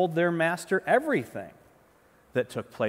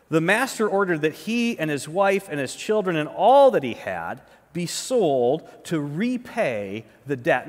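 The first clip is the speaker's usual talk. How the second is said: slightly louder, measured Bible reading voice; scripture reading; 4 dB louder than usual. Acted. Pastor reading the parable to his congregation, measured reading voice. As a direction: read the passage out to the congregation.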